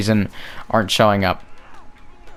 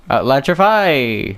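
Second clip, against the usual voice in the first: Electrify stretched slow and proud; drawn-out triumphant call; 3 semitones higher, slower than usual. Shown as a demonstration. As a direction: announce Electrify like a big move.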